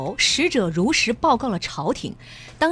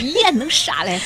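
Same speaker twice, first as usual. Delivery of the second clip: Henan dialect; 6 semitones higher than usual. Retold or imitated. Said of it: "用河南话应该讲是".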